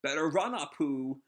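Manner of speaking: lightly voiced gloating villain laugh; mustache twirling villain. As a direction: cackle and taunt, a hint of villainy. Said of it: "Queen laughs".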